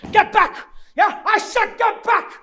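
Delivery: loud, high commands; threatening shout. Acted. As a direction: yell to force them back. Threatens the gang.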